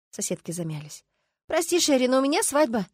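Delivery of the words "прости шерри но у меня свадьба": higher, sympathetic apology; gently sorry, pitched up; sincere sympathy. A narrator's reading. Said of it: "с искренним сочувствием ответила".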